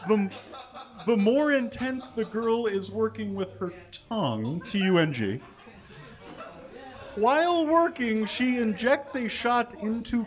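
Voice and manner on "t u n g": letters read one by one, amused; deadpan spelling of a typo. Shown as a demonstration. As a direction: spell the word aloud, mocking the misspelling. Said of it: "spells out the typo".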